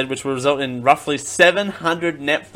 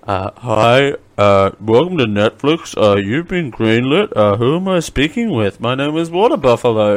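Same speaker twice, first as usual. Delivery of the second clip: answering as Dale; 2 semitones lower than usual. Pretend. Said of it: "so I'm Dale".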